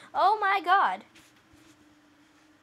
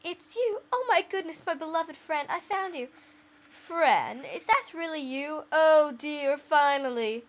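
lightly voiced cat, louder and overjoyed; manly cat voice; 4 dB louder than usual. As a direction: play a cat gushing at its lost friend. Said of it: "why did I give the cat that voice".

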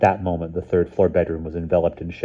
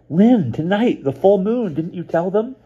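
put-on a much higher, urgent girl's voice; a frightened friend sounding the alarm over the wire; alarmed young girl; 13 semitones higher, 6 dB louder than usual. A narrator's reading. Mouse warning Lynn on the phone about the full moon, alarmed and high.

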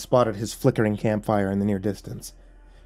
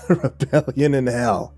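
mocking; 5 semitones lower than usual. A narrator's reading. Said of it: "he said mockingly".

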